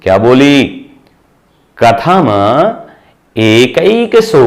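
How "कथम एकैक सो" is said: "एकैक सो" read slowly, each part set apart; slow, careful read of "एकैक सो" for the class; slow split-up reading. Shown as a demonstration. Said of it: "अलग अलग करो।".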